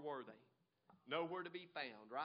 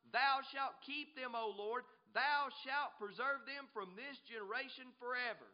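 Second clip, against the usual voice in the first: declaimed scripture; 4 semitones higher, 6 dB louder than usual. A narrator's reading.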